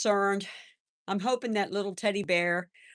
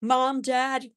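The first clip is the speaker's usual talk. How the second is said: put-on higher, childlike sorry voice; grandson's apology; 7 semitones higher than usual. Grandson apologizing to the earthworm's family, in a higher childlike voice. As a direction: imitate a little boy apologizing to the worms. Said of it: "He come".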